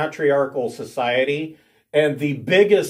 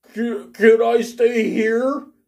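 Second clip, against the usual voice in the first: put-on sniffling, halting, pitched-up voice; 8 semitones higher than usual. A character asks whether he can stay: sniffling. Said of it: "he kind of sniffles".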